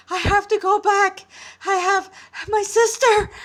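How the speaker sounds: high, loud, frantic begging; desperate pleading shout. Acted. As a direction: beg like everything depends on it. Boy begs to go back.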